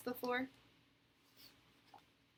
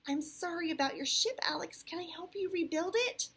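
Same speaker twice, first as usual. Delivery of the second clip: put-on higher, kind little-girl offer; kindly; 11 semitones higher, 10 dB louder than usual. A narrator's reading. Sophie offers to help Alex rebuild, kindly. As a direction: lift the voice in sympathy. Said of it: "she asked kindly".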